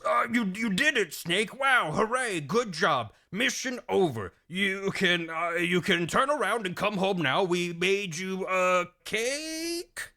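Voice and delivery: halting, unconvincing congratulations; Big Boss. Acted. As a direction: stammer through fake cheer, stretching the last word. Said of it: "a call from Big Boss".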